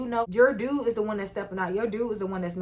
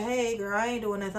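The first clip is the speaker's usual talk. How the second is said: glum friend; 4 dB quieter than usual. Retold or imitated. Voices the glum friend replying.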